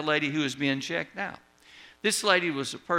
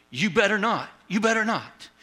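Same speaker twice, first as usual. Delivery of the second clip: sharp, rising scolding warning, higher each time; 5 semitones higher, 3 dB louder than usual. Retold or imitated. Old lady scolds the bagger not to squash her bread, pitch climbing on the repeat. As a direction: wag a finger at the bagger with your voice. Annoyed customer warns the bagger.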